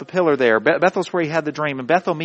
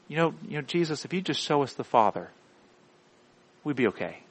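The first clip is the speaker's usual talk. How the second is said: Philip; 7 dB quieter than usual. Acted. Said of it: "what does Philip say in John fourteen".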